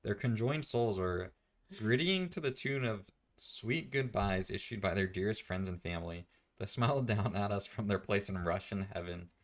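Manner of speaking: solemn-speech parody with lilting pitch; hammed-up funeral oration; mock eulogy. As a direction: declaim a pretend memorial address. Delivers a mock memorial speech.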